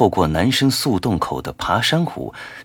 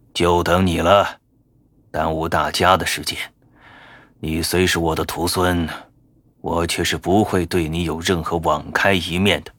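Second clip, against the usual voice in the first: stern rebuke; 3 semitones lower than usual. Acted. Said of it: "怒斥道".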